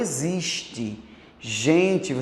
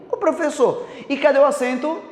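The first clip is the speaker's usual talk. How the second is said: student voice; 6 semitones higher, faster than usual. Acted. Teacher voices a puzzled student.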